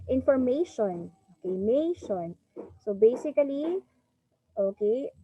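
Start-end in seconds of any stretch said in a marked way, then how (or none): 0.0-1.1 "Information" with MA stressed and held; longer stressed syllable. Shown as a demonstration. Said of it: "it is also longer". 1.6-2.4 "mation" with a long stressed MA; longer stressed syllable. Shown as a demonstration. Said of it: "Pansin nyo, it's longer".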